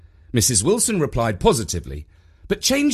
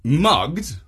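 higher-pitched startled question; questioning disbelief; 5 semitones higher, 3 dB louder than usual. A narrator's reading. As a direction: query the word as if unbelievable. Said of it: "asked Jeff".

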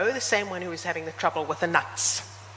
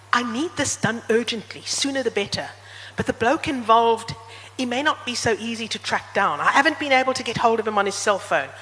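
lightly voiced, higher-pitched nervous Trevor; a hint of a flustered amateur commissioning a crime; nervous shady client; 3 semitones higher than usual. Voices nervous passenger hiring the driver.

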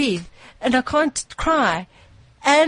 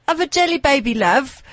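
put-on funny Irish accent; 4 semitones higher than usual. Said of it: "in their funny Irish accents".

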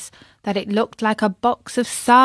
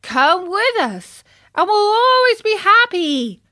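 put-on several boys coaxing from the wagon; crying out; 10 semitones higher, 5 dB louder than usual. A narrator's reading. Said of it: "cried four other voices".

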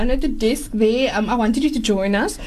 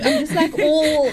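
eating chocolate; 6 semitones higher, slower than usual. Real, not acted. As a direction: mouth full of chocolate cupcake. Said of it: "enjoying the taste here that I can't even speak properly".

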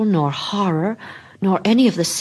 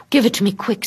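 higher, hurried and eager; eager urgent plea; 5 semitones higher, 4 dB louder, faster than usual. Acted. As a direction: push the words out eagerly. Della urges eagerly.

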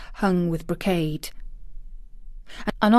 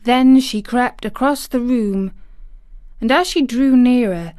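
ordinary delivery, nothing marked

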